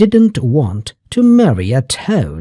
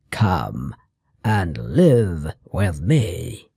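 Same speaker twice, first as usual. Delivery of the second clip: low mouse voice; 7 semitones lower, 5 dB quieter, slower than usual. A narrator's reading. Mouse offers shelter.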